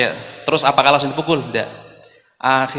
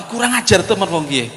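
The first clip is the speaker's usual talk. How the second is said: higher-pitched indignant outburst; mock anger; 5 semitones higher than usual. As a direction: act out companions getting angrier. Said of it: "Sahabat tambah marah". (omelan marah tiruan)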